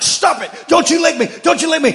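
high, loud playful scold; mock scolding. Owner pretending to scold his licking dog, high and loud. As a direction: scold the dog while loving it. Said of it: "I'm like".

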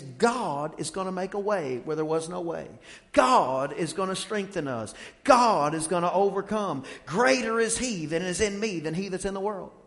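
lightly voiced faith-filled preacher uncle; a hint of the uncle's preacher voice; imitating the uncle preaching. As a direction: echo the uncle's stock declarations. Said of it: "somebody can talk like that all the time".

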